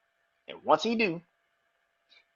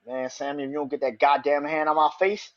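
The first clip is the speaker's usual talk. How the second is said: heated rant; 6 dB louder than usual. Retold or imitated. Jay telling off Sammy on the mic, heated rant. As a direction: tear into him, then lean hard on blood. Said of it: "and he's just going in".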